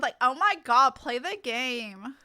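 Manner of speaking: put-on drawn-out, slowed valley girl whine; light valley girl, slow on the last words. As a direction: play it like a ditzy valley girl. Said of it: "Cat turned into a valley girl".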